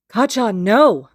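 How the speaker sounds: high, loud desperate cry; shout. Acted. Izuku stopping Kacchan from attacking Haru, shouting high. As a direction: yell to stop him. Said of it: "Izuku shouts".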